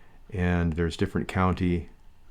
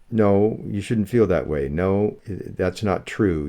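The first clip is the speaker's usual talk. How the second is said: insistent reassurance; 4 dB louder than usual. Retold or imitated. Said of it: "I was trying to talk you out of it".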